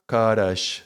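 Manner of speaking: crash with car inside it; crash split as car-sh. Shown as a demonstration. Showing car ending in silence, crash drawn apart. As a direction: stretch crash into car plus sh. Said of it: "like a car".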